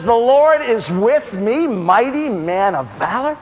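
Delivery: slow, questioning repeat; puzzled echo. Acted. Frightened Bible reader echoing the angel, slow and incredulous. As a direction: draw it out in mild disbelief, rising at the end. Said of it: "Here I am in the broom closet".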